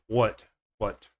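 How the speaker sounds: "what" said as one quick syllable; correct w demo. Shown as a demonstration. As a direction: clip "what" short. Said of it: "but you don't".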